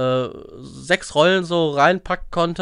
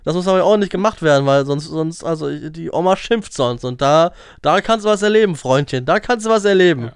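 mock scolding. Playing scolding window cleaner.

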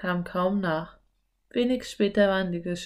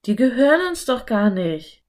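objecting Philipp; 4 semitones higher, 5 dB louder than usual. A narrator's reading. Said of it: "wandte Philipp ein".

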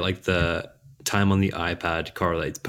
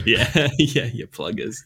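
laughing Aussie echo; 5 semitones higher than usual. Pretend. Echoing the Aussie bit laughing.

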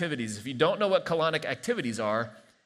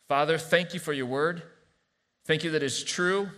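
measured, earnest prayer with pauses; calm congregational prayer. Real, not acted. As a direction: settle into thanking God, phrase by phrase. Prays aloud after the reading.

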